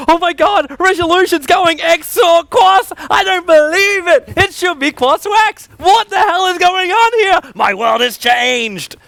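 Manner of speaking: high, shouted over-the-top astonishment; mock amazement. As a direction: ham up a hype caster's shocked reaction. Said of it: "have a genuine reaction and go".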